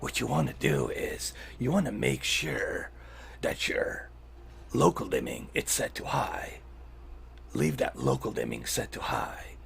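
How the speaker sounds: hissing whispered snake voice. Acted. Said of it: "I'll give you the settings and the snake voice".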